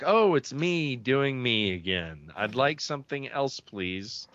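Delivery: drawn-out exasperated groan at oneself; complain, fed up with your own voice; aggravated. Acted. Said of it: "I get so aggravated when I hear it".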